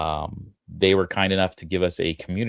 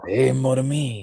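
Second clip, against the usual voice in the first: mock French; 7 semitones higher, 3 dB louder than usual.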